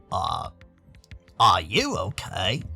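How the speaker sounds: slow, low, soft concern; low, careful check-in; deep-voiced concerned friend. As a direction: ask gently in a deep, slow voice. Dean voiced, checking on Dave.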